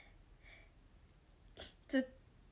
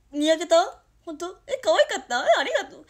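excited; 3 semitones higher, 10 dB louder than usual. Real, not acted. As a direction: gush with flustered surprise. Reacting to viewer praise.

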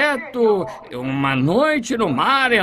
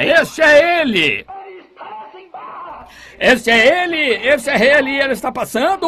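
excited shout; 5 semitones higher, 4 dB louder than usual. Retold or imitated. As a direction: shout it out as he realises who passes. Blind man hears Jesus passing.

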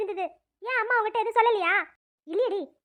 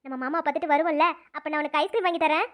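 lower, coaxing comfort; soothing apology; 4 semitones lower than usual. Acted. Girl comforts friend who got beaten for her, soothing. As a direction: console gently, as if to a child.

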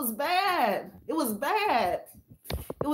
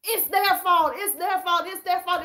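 mock past self; 5 semitones higher than usual. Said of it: "I was pointing at other people".

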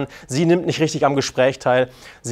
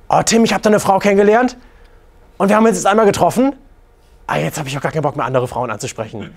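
imitating an eager client, higher and louder at first; mock smitten client; 4 semitones higher, 3 dB louder, faster than usual. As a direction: gush like a freshly smitten guy, then let it sink. Imitates smitten client telling coach. (nachgeahmter verliebter Kunde, aufgeregt)

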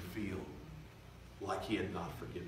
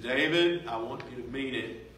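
insistent Lord; 3 semitones higher, 7 dB louder than usual. Retold or imitated.

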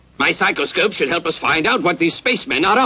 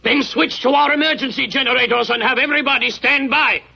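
raised-pitch emergency command; urgent orders; 6 semitones higher than usual. Acted. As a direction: order the crew to stations in a higher voice. Captain giving emergency orders.

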